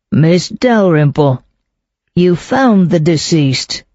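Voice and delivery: slow, pointed accusation; accusing. Acted. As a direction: lay the blame on her deliberately. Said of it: "His tone was accusing".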